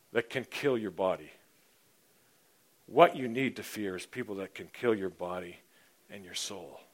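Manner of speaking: grave, measured voice of authority, mostly low; quiet warning with long weighty pauses; Jesus. Acted. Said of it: "He says this".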